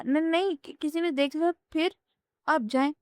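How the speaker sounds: narrated panic, voice lifted high; panicked. A narrator's reading. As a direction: push him away in a nervous rush, pitch up. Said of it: "وہ گھبرا کر بولی".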